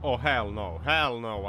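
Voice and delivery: loud emphatic hell no; punchy disgusted outburst; loud refusal. Real, not acted. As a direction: reject it out loud. Reacting to bad driving.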